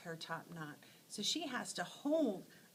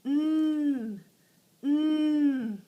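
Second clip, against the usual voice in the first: loud, higher mm calls with open mouth; owl calls; 6 semitones higher, 12 dB louder, much slower than usual. Acted. Teacher voicing a hungry night owl, loud hoots. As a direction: hoot it out like a hunting owl. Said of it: "he goes".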